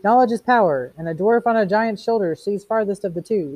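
mock shriek. A narrator's reading. Beatty imitating Montag in their debate, mock shrieking. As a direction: retell the shriek as spirited declaiming. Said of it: "And you shrieked".

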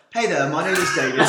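lightly put-on British accent; playful mock-British introduction with a laugh; Davis. Host imagining a friend with a British accent, mock British. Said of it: "imagine if Davis has that, uh, British accent".

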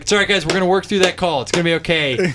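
snide, fast reassurance for the ref to hear; passive-aggressive comfort; mock soothing. Snide talk to teammates so the ref hears. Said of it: "I'd be like".

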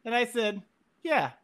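put-on reading a childhood story aloud; story recital. Reading his childhood Bigfoot story to the hosts, a mock recital. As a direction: recite it like a kid's tale. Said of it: "this is a good one".

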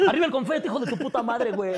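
grito agudo de porra; porra gritada. Pretend. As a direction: grita como barra de payasos. Porra de payasos. (porra gritada y aguda)

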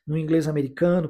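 usual speaking voice

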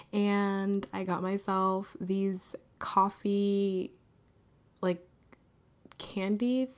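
slow, unvoiced whisper. Real, not acted. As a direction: whisper it slowly, savoring. Drawn-out whisper.

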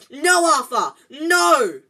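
high, loud desperate shriek. A narrator's reading. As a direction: scream at him to stop. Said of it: "Missus Weasley was shrieking".

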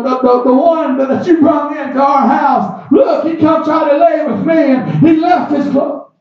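retold accusation. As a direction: call out the lie, half-acted. Accusing wife, told in sermon.

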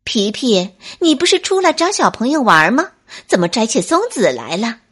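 又快又响地质问; 朝树上大声喊. Acted. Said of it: "冲在树上摘松子的皮皮喊道". (大声喊)

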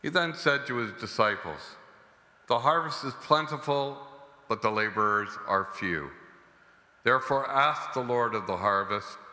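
solemn liturgical reading; Gospel reading. Acted. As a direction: proclaim the Gospel at mass. Priest proclaims the Gospel.

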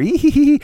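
high, squealed mock giggle; loud, shrieky girlish tittering; imitated giggle.

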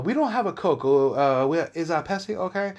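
halting, hammed-up Asian accent; mock Asian accent. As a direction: imitate a hesitant waiter in a mock Asian accent. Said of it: "did an Asian accent".

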